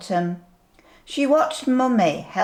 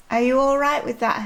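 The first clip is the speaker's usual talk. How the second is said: put-on sweet old lady; 6 semitones higher, faster than usual. Asks toy sheep.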